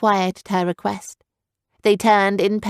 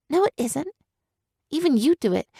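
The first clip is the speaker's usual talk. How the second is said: put-on high, wounded girl's voice; hurt young girl; 7 semitones higher than usual. Girl character voice.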